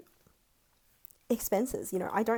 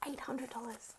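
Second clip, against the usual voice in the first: whispered in disbelief; awed whisper; 3 semitones higher, 9 dB quieter than usual. Real, not acted. Vlogger repeating her savings total, whispering in awe. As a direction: breathe the number in awe.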